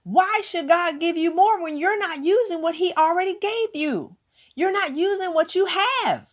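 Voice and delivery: mock proper Harvard English, "what he already gave you" spelled out carefully; the same line redone in a proper, corrected way; corrected Harvard vernacular. Shown as a demonstration. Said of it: "more corrected Harvard vernacular".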